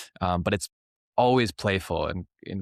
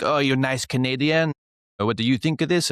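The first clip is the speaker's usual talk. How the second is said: imitating his teacher Gully; 6 semitones higher, 4 dB louder than usual. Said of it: "He'd be like".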